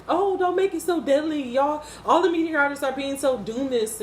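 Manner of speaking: high, mocking newscaster voice; mocking news anchors. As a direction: sneer it like a chirpy TV host. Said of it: "these news people just like".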